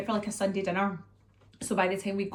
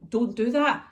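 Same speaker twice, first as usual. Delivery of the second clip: firm, higher mum voice; retold telling-off; 4 semitones higher, 4 dB louder, slower than usual. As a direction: pull a toddler up on it. Mum retells telling off toddler.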